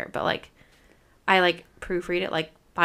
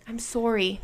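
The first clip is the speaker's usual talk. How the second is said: lightly imitated Canadian "sorry"; mock a Canadian apology; Canadian accent; 3 semitones higher, 3 dB quieter, slower than usual. Imitating characters on a Canadian show, mild Canadian accent. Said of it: "'cause they're from Canada".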